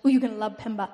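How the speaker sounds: lightly voiced funny pastor; a hint of pastor impression; Pastor Shangwei. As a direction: imitate the pastor's enthusiastic promise. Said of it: "he talks like this".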